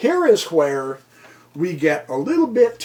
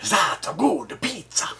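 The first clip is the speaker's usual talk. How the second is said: playful stage-Italian sing-song; mock Italian accent. Shown as a demonstration. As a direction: put on a joking Italian accent. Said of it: "You know, like an accent".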